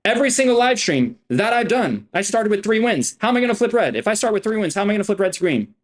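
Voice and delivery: high, insistent bragging; worked-up boasting. Real, not acted. Streamer daring viewers to doubt his wins, worked-up boasting.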